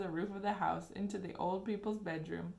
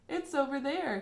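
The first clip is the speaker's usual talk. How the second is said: eager pointing; 7 semitones higher, 5 dB louder than usual. A narrator's reading. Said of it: "he said, pointing".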